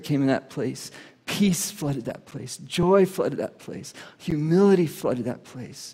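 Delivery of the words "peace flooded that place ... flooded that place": slow, rising declaration of peace and joy; preaching build. Acted. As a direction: proclaim each word slowly, building up. Preaching climax.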